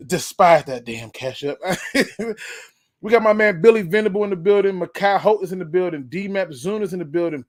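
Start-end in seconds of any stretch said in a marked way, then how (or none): 0.0-2.4 words breaking into real laughter; laughing. Real, not acted. Host reading a fan's ketchup joke, laughing. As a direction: crack up while finishing the line.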